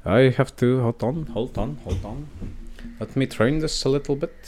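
put-on a wobbly, half-Russian Norwegian accent. Host doing a Norwegian accent on request, shaky attempt. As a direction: fake Norwegian accent for a podcast outro. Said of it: "do a Norwegian accent for the outro".

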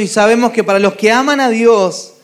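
measured reading of the verse; scripture reading. Shown as a demonstration. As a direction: read it out like Scripture.

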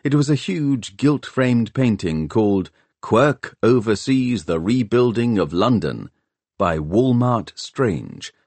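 plain reading voice

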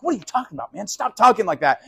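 high-pitched disbelief, pitch leaping up on the question; shocked friend protesting; incredulous Peter. Retold or imitated. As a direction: Peter can't believe what he's hearing. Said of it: "Peter's like".

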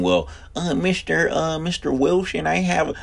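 high, hesitant student voice asking the teacher; annoying student. Retold or imitated. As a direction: play the kid who raises his hand at the bell. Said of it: "that's that student".

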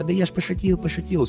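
high, soft mock excuse; lightly voiced sheepish guy; imitating streamer. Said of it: "состояние у него, типа".

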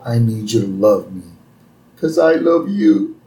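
a hint of Homer pouring his heart out; Homer pleading. Homer pleading with Marge to take him back. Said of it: "So then Homer goes".

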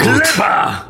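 high screamed command; screaming. Acted. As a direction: scream the order. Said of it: "wrzeszczał Ziarko".

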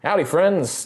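only a hint of the Deep South accent on howdy; a toned-down Southern greeting; lighter Southern accent. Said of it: "he doesn't have a fully Deep South accent".

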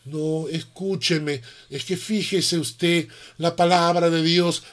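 soft, slow, coaxing voice; calm, gentle reply. Retold or imitated. Christian calmly answering the shouting atheist, soft and slow. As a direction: gently plead with him to listen. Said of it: "una posición tranquila, una posición suave".

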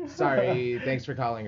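lightly put-on call-center white voice; polite phone-agent politeness, lightly imitated. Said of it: "the white voice".

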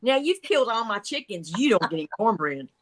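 scolding mom voice. Retold or imitated. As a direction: scold like a fed-up mother. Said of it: "that mommy voice".

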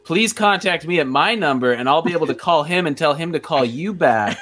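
lightly acted voicemail message; mock voicemail greeting. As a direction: recite a pretend answering-machine greeting. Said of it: "my actual voicemail".

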